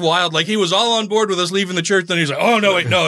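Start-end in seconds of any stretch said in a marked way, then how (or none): 2.4-3.1 higher-pitched, lightly alarmed retraction; mock backtracking. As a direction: lightly imitate someone hastily taking back approval. Retells preacher's sudden change of mind.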